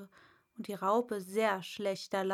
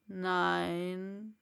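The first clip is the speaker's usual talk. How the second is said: Raupe; 2 semitones lower than usual. Acted. Raupe voiced.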